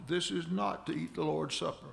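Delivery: "not" emphasized within the phrase; stress on not. Shown as a demonstration. Preacher repeating verse for congregation, emphasis on "not". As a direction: make "not" the key word of the verse. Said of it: "I emphasize the word not".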